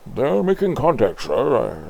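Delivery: high, loud alarmed report; alarmed officer. Acted. Officer warning the general of contact, loud and high. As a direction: blurt it out urgently.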